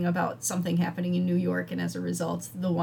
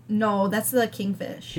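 drawn-out Wisconsin O on "No"; slow Midwestern vowels in a Wisconsin accent; slower than usual. Real, not acted. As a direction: let the Wisconsin accent slip out on "No". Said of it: "Listen to how you say no".

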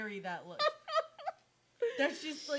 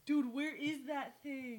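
laughing shout; 3 semitones higher, slower than usual. Real, not acted. Reacting to tiger photo.

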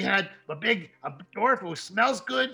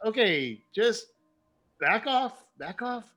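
taken aback; 5 semitones higher, slower than usual. Acted. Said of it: "he just like".

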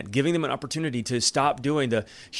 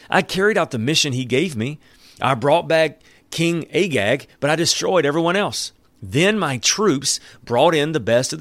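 insistent Saul; 3 semitones higher, 3 dB louder than usual. Acted. Saul voiced defending himself.

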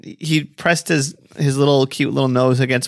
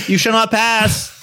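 slow, high wizard command; Gandalf voice; 6 semitones higher, slower than usual. Acted. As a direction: declare it like a wizard. Gandalf quote.

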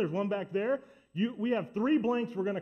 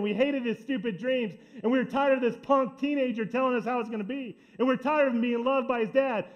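lightly voiced regretful brothers; 2 semitones higher than usual. Brothers looking back on selling Joseph, mild remorse. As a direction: build from puzzled regret to anguish over selling him.

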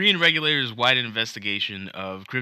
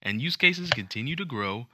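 newscaster voice. Pretend. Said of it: "I wanna try one of those newscaster voices".

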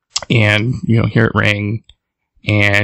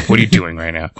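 mock question; 5 semitones lower, faster than usual. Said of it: "she's being accused".

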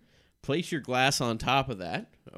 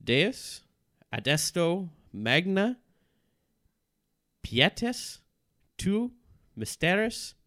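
raised, slow chanting Latin; incantation; 6 semitones higher than usual. Acted. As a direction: intone it like a ritual spell. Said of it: "recite the following Latin aloud".

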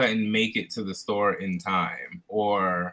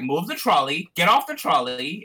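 attempted Australian accent, higher pitched; 5 semitones higher, 3 dB louder than usual. Manager ordering shoppers off the trolley, attempted Australian accent. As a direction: imitate an Australian store manager, a little higher. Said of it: "Is that your Australian accent?".

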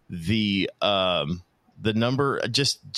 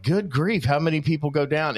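high exasperated exclamation; 5 semitones higher than usual. Retold or imitated. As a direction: act amazed and a bit exasperated. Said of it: "And I'm like".

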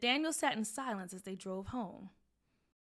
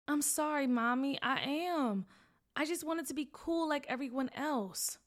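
sad; 5 semitones higher, 3 dB louder than usual. Acted. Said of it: "Nathaniel said sadly".

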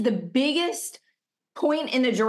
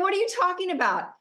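higher, fast disbelieving question; incredulous; 8 semitones higher, faster than usual. Retold or imitated. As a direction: fire it back in shock. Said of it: "And I was like".

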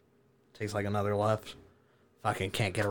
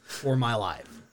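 laughing; 2 semitones higher, 5 dB louder, slower than usual. Real, not acted. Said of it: "I am tripping balls".

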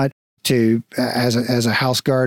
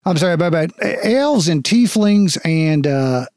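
flustered guard; 4 semitones higher, faster than usual. Acted.

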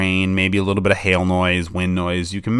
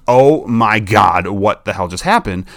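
inner panic; slower than usual. Retold or imitated. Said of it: "internally I could be going".

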